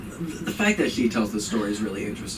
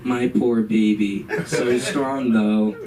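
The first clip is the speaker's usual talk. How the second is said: cooing sympathy; slower than usual. Retold or imitated. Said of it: "an immediate tone switch".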